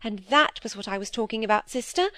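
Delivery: timid younger sister. Acted.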